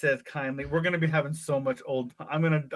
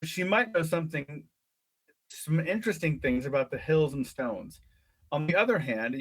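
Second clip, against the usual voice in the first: lively read-aloud storytelling; story narration. A narrator's reading. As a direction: read it like a children's adventure book. Reads gamebook story aloud.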